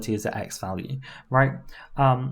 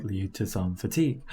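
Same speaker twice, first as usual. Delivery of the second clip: tense low demo; 5 semitones lower, 4 dB quieter than usual. Shown as a demonstration. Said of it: "demo of tense voice".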